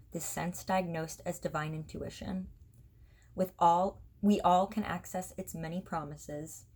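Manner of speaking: measured recital with pauses between lines; poetry reading. Acted. Author reading own poem to online viewers, measured poetry recital. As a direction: read each line of verse evenly, letting it settle.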